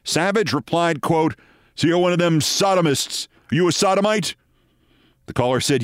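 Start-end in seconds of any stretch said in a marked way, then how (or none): 1.8-4.3 higher, lightly acted indignation; mock angry rant. Commentator quoting a fired host's on-air outburst, mock angry. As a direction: read the insult as a mock accusation.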